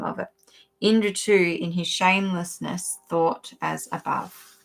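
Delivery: measured read-aloud, phrases starting strong and settling; formal storybook recital; scripture narration. A narrator's reading. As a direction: tell the sacred tale clearly and evenly.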